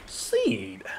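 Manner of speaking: high whispered seed. Acted. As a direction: breathe it out unvoiced. Whispered item name.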